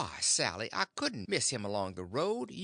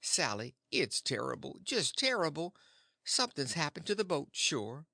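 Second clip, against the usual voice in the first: mild scared husband; 3 semitones higher than usual. Acted. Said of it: "I'm right down scared".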